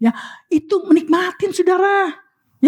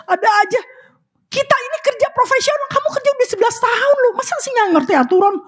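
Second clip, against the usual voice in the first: high, raised mock scold; mock exasperated scolding; 9 semitones higher than usual. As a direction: lecture them, exasperated and pitched high. Retold scolding of employee. (omelan pura-pura kesal, nada tinggi dan keras)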